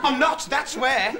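high-pitched comic indignation; outraged rant. Acted. Indignant rant about cost of America.

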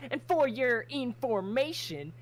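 huffy and caught out; embarrassed defensive. Acted. Crimson defending her journal to Tally, flustered and high.

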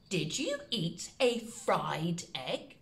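low, careful dictation; slow soft dictation. Shown as a demonstration. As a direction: read the question out slowly to copy. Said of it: "The second one is".

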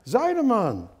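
high, loud hail; calling out. Acted. Man afraid his friend hasn't heard, calling out. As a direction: call the name hard so it carries. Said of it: "he called out again".

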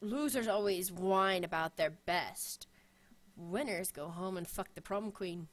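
lightly voiced, low and hushed Sean Connery line; a failed try at the Connery voice, quietly; bad Sean Connery impression. To friends, retelling a ringtone quote, in weak Connery voice. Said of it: "I cannot do his voice or accent to save me".

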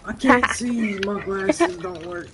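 put-on slow, high old man voice; doddering old gamer. Imitating himself as old gamer.

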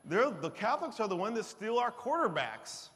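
mock zealot rant. Mock zealot rant, high loud, laughing.

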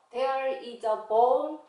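slow "There is a bone", "is a" run together as "iza"; linked reading. Shown as a demonstration. Teacher repeating for learners, slow with "is a" linked. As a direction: glide from "is" straight into "a" in "There is a bone". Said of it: "is 하고 붙여서 읽으세요".

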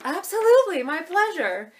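high, loud, put-on server cheer; overeager fake reply. Shown as a demonstration. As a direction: gush it without meaning it. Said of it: "it's really not the pleasure".

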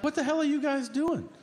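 high exasperated cry; shrill disbelief at the boys; exasperated dad. Retold or imitated. Dad to the boys outside, a high exasperated cry.

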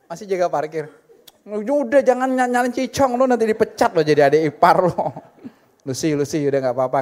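normal talking voice

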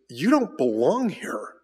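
lightly voiced old stranger, slow and deliberate; slow, a hint of a knowing old man; old stranger at the bar. Old stranger at a bar telling the Christian he doesn't belong, slow and lightly voiced. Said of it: "And he goes".

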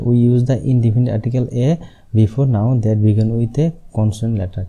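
slow, word-by-word rule reading; slow dictation. Shown as a demonstration. Teacher dictating the silent H rule slowly. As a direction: dictate it so students can write. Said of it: "আর এ কখন বসবে?".

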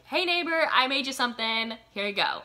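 high, loud cheery call, easing off; chirpy neighbor greeting. Retold or imitated. Neighbor turns up with food.

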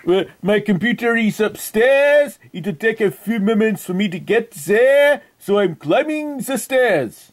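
hammed-up French accent on a prank call; outrageous fake French accent. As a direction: play a Frenchman with a thick, put-on French accent. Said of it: "That is why I have this outrageous accent".

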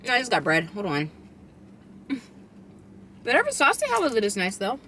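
speaking between bites; chewing while talking. Real, not acted. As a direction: mouth partly full of food. Seen 1: Took bite at -7; jaw chewing, lips closed at +1 to +3.

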